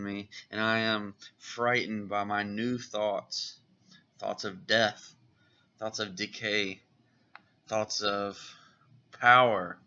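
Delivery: mildly acted troubled confession, key words punched; dramatic comic reading. Raven confessing dark thoughts to Azar, dramatic reading. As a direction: read it as Raven's anguished prayer, understated.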